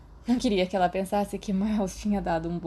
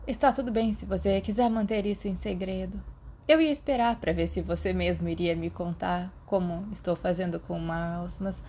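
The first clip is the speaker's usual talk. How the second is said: more serious. Acted. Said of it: "sua voz estava mais séria do que o normal".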